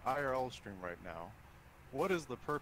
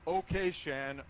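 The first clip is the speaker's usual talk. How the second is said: nervous breakdown; 4 semitones higher, 9 dB louder than usual. Real, not acted. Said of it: "This is me talking right now".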